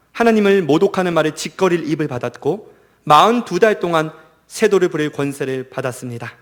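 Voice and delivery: firm, projected Bible reading; scripture reading. Acted. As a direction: read the passage out solemnly to listeners. Reads Revelation passage aloud. (또박또박 힘 있게 성경 낭독)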